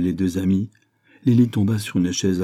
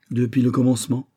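gentle imitation; 5 semitones higher, 4 dB louder than usual. A narrator's reading. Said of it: "Miss Barth l'imitait gentiment".

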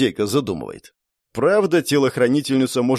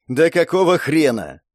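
irritated; 3 semitones higher than usual. Acted. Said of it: "раздражённый тон".

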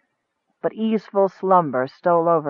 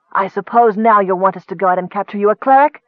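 sneering; 4 semitones higher, faster than usual. Acted. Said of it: "the goblin chief sneered".

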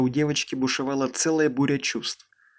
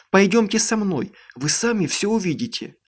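urgent; 6 semitones higher than usual. Acted. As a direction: hurry them along, pushing. Amanda urging parents to follow.

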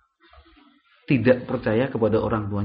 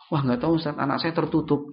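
mock offhand parent reply, softer; imitating nonchalant parent; 3 semitones higher, 4 dB quieter than usual. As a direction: lightly play a parent breezily shrugging it off. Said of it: "Jawabannya enak banget gitu". (menirukan jawaban santai orang tua)

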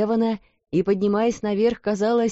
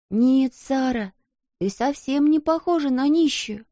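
eager interruption; 6 semitones higher than usual. A narrator's reading. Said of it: "прервала её Эрмингарда".

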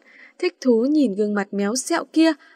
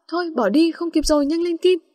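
higher-pitched, mildly panicked urging; flustered; 6 semitones higher than usual. A narrator's reading. Nghi urges Kim to drop it and go, flustered. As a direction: hurry her along, a touch of alarm. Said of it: "nói giọng hốt hoảng".

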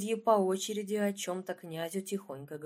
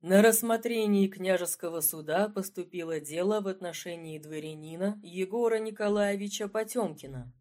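reading aloud loudly; 2 semitones lower than usual. Acted. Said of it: "юрист громко прочитал".

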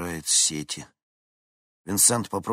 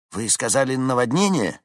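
surprised question; 6 semitones higher, 6 dB louder than usual. A narrator's reading. Dispatcher asks in surprise.

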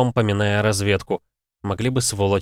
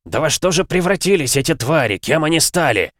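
1 отчаянная ярость; 7 semitones higher, 4 dB louder than usual. A narrator's reading.

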